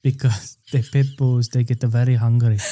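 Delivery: drifting, hammed-up Asian accent. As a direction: warn guests in a mock Asian accent. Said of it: "Are you Asian?".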